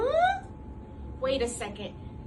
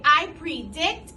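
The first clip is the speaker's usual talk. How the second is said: put-on slow, louder model for the kids; slow model phrase; 5 dB louder, slower than usual. Shown as a demonstration. Teacher modelling a sentence starter, slow and louder. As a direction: say it slowly so they can echo. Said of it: "I want you to say".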